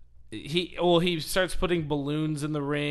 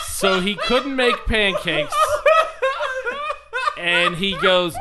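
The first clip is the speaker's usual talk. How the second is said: loud, slow words through laughter; laughing while talking; 8 semitones higher, 9 dB louder than usual. Real, not acted. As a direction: keep laughing as you speak. Still laughing after punchline.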